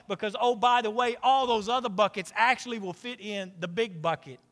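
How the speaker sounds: fervent sermon delivery; full-force preaching. Acted. Preaching Paul's message at full force.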